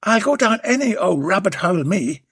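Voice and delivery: cheeky workman flirting; Warren's voice. Acted. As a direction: wink through it.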